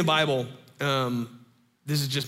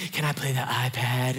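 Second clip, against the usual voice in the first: imitated three-year-old; 4 semitones lower than usual. Three-year-old asks at bedside.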